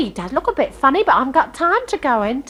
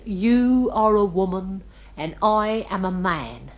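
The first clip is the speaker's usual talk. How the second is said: a lightly voiced crooning ladies' man, slow; hint of a slow, smoochy charmer; mock seducer; 4 semitones lower, slower than usual. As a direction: croon it slowly like a would-be lover. Retells his slow-waltz seduction line.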